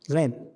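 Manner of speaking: the qaf voiced as غين, a soft throaty gh; dialect qaf as ghain. Shown as a demonstration. Teacher showing students how dialect speakers say qaf as غين. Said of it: "القاف تنطق إيش؟".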